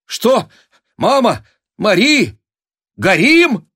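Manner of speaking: high, loud startled cry; a young man woken by candlelight; startled shout. A narrator's reading. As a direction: jolt awake shouting. Alyosha woken in alarm.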